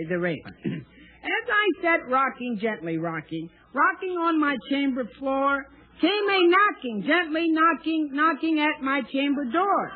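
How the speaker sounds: hammed-up dramatic poetry reading; dramatic poem recital. Shown as a demonstration. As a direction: declaim it like a grand poem. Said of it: "recite one of your poems".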